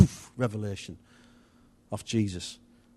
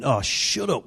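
mock-exasperated retort, drawn-out "shh"; joking dismissal; 3 semitones higher, 3 dB louder, slower than usual. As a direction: retell a playful brush-off. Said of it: "wasn't being serious".

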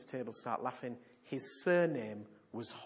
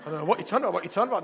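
much louder, laughing, higher; mock baffled reply; 4 semitones higher, 12 dB louder, much faster than usual. Preacher mimics a baffled stranger answering a prophecy, loud laughing mock. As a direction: ham up a confused stranger. Puzzled listener's reply, mocked.

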